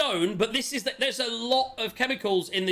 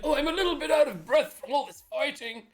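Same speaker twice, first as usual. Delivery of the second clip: out of breath; 7 semitones higher than usual. Retold or imitated. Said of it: "ask the party if they're just".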